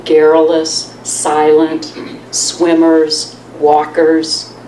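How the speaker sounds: measured reading with pauses between phrases; poem read aloud to an audience; poetry reading. Acted. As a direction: let each line land, then pause. Reads own poem to audience.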